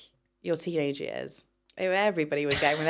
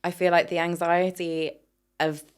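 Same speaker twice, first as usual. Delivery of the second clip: calm, soothing therapist tone; soft spa voice; 2 semitones lower than usual. Pretend. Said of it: "Spa voice".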